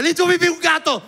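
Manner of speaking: excusa desesperada, muy aguda y fuerte; grito desesperado. Retold or imitated. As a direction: chillar una excusa con pánico actuado. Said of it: "Y yo desesperado le hice". (grito agudo de desesperación fingida)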